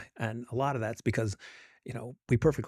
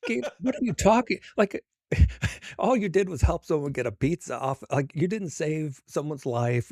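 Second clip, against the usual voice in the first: a laughing mock scolding of himself; half laughing, brush off the praise; laughing protest; 2 semitones higher, 4 dB louder than usual. Scolding his inner voice, laughing and incredulous. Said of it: "And I was like".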